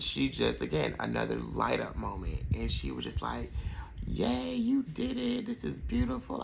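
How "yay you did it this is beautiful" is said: mock thrilled auntie squeal; lightly hammed-up joyful aunt; imitating excited auntie. Retelling auntie's happy reaction.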